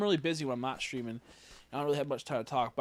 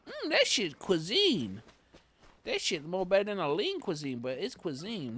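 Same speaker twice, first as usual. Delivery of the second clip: hood voice; 6 semitones higher than usual. Retold or imitated. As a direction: savour it like ghetto fine dining. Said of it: "you say".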